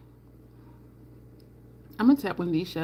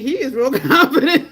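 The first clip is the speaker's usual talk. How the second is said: louder, breaking into a laugh; laughing mid-line; 4 semitones higher, 8 dB louder than usual. Retold or imitated. Laughing while mocking his confidence to viewers. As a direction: let the laugh split the word. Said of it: "and I'm like".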